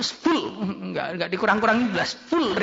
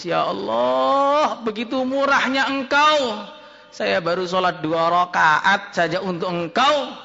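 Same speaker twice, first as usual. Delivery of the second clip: tearful prayer. Retold or imitated. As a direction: pray as if moved to tears. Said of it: "langsung nangis".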